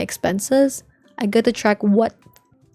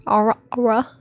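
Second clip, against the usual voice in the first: usual speaking voice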